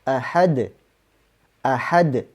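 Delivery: ahad ending in a light bounced d; final d of ahad bounced lightly, about half a vowel; qalqalah on d. Shown as a demonstration. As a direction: ahad said with a short echo on the final d. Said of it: "lebih dekat ke d".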